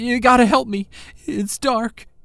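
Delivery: very high, stuttering, terrified voice. Reading a ghostly caller's plea aloud in a stuttering and scared voice. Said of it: "a stuttering and scared voice cut her off".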